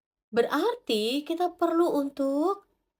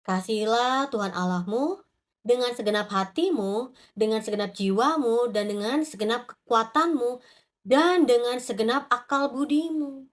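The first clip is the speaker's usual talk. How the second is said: scripture reading. Acted. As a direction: read each phrase deliberately. Reads Luke 10:27 aloud.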